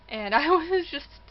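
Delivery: high, loud, slow giggle through the words; real happy laugh; laughing with joy. Real, not acted. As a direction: laugh out the relief.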